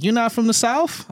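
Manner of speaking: high surprised question; imitating a surprised girl. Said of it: "she was like".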